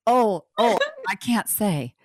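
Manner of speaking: a hint of coy Sophia Loren glamour. Host retells how Regina coyly answered the caller. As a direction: lightly play it coy and grand, like Sophia Loren. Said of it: "in her very Sophia Loren way".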